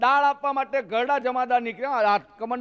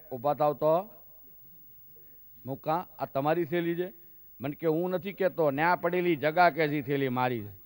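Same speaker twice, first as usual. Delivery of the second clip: Saurashtra elder; 5 semitones lower than usual. Retold or imitated. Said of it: "ત્યાંના વડીલો એવી joke કરે".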